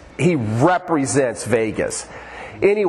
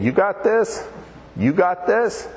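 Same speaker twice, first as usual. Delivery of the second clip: incredulous questioning; 5 semitones higher than usual. Retold or imitated. Pictures the Lord questioning him.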